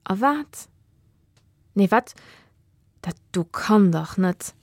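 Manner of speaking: lightly voiced shocked boy; disbelief. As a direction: react as if you can't believe your eyes. Joss shocked at the costume.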